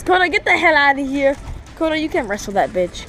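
yelling at the dog; sharp loud scolding. Real, not acted.

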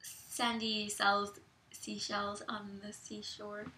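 slow, drawn-out tongue twister; vocal warm-up. Shown as a demonstration. Friend warming up the voice before an accent, slow tongue twister. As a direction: stretch the words out to warm up. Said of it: "say something first so I can warm up".

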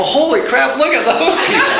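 mock astonishment, breaking into high laughter; laughing amazement. Real, not acted. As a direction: pitch climbs into a laugh as if gawking. Mock amazement at white Britons.

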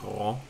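R from the throat in "ro"; French R. Shown as a demonstration. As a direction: say "ro" with a French guttural R. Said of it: "better French R than I do".

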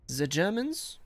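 put-on slight German accent, rising question. Gamer reacting to the Germans being back, light German accent. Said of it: "said that with a German accent".

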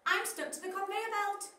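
high-pitched fretful carrot voice; a stuck little carrot complaining; squeaky carrot. Acted. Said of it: "cried the carrot".

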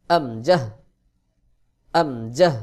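আমজাহ in two measured, loud syllables; loud, carefully separated আমজাহ; throat-start hamza. Shown as a demonstration. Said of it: "হলকের শুরু থেকে উচ্চারণ হবে".

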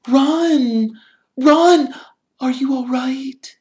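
high, loud panicked squeal; frightened girl squealing; worried squeal. A narrator's reading. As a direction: squeal in alarm over him. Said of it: "squealed Hermione".

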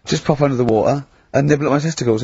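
quick, light mock French accent; a hint of comic French. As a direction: rattle it off as a French-accented emperor. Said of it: "I don't know why he's French".

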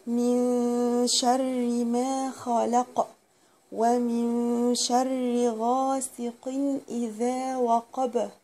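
slow, measured tajweed recitation; Quran recitation. Acted. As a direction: recite the sura slowly with care. Recites the whole sura. (تلاوة مرتلة للسورة كاملة)

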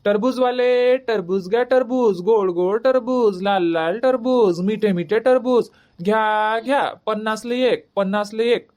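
slow, sing-song street vendor cry; drawn-out market hawking; hawker's call. Acted. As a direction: chant it like a village fruit seller.

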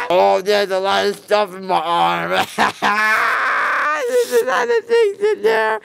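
high, fast laugh-cry; giddy, teary rambling. Real, not acted. Loopy after anesthesia.

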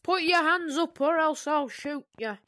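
lightly voiced gunman threat; mock robber in a role play, lightly threatening; mock stickup. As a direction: play a robber half-seriously. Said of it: "I got a perfect role play".

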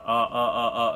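"あ" as a short, vague uh; short repeated neutral vowel on "あ"; relaxed schwa. Shown as a demonstration. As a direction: let "あ" drop out lazily, mouth relaxed. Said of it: "リラックスして".

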